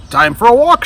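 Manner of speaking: high, loud, eager; high excited creature voice; eager alligator. Acted. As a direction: alligator ready to go out.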